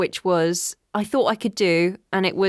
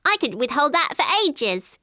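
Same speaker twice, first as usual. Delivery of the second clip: high-pitched character voice; 7 semitones higher than usual. Shown as a demonstration. Voice artist showing the voice she could hold, high character voice. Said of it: "That was the kind of voice".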